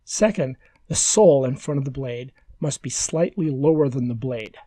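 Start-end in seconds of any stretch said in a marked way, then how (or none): 2.6-4.5 "slightly" leaned on a little; stress on slightly. Real, not acted. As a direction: put the emphasis on the word "slightly". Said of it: "Emphasis on the word slightly".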